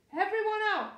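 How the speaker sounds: loud, high firm command; ordering. Acted. Father sending the children out, loud order. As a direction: clear the room like a dad in charge. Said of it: "ordered Mister Large".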